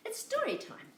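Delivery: bright, lifted call to story time; rally the little one for story time; excited call. Real, not acted. Calling child to story time.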